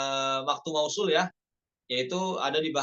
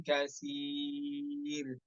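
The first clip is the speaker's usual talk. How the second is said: slow drawn-out chant; Quranic recitation; much slower than usual. Shown as a demonstration. Teacher reciting the verse slowly. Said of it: "nomor tujuh puluh".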